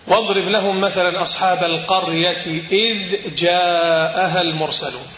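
slow recited verse, ذ of إذ clear; Quran recitation. Acted.

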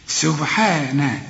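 سبحان with a held, light HEE; long alif. Shown as a demonstration. Teacher shows alif, lengthened سبحان. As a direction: draw out سبحان slowly on the thin حا. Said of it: "وبعد نهاية الحاء في ألف".

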